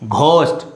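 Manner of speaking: GHOST with a breathy "gh" at the start; students' wrong pronunciation. Shown as a demonstration. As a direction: puff an h after the g in ghost. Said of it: "they pronounce".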